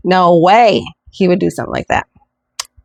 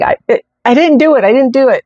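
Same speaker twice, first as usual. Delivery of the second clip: high-pitched mock tearful denial; retold crying plea; 6 semitones higher than usual. Husband phoning wife from police station, imitated tearful pleading. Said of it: "he was crying".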